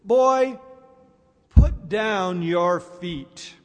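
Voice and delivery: lightly voiced old man, slow and deliberate; old man's calm instruction. Old man to the panicking boy, slow and deliberate. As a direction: spell it out slowly, with pauses, as the unruffled old man. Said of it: "the old man looks over and he says".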